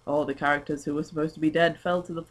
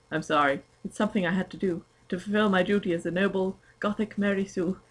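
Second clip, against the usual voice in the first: posh voice; 3 semitones higher than usual. Acted. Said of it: "this voice is so posh".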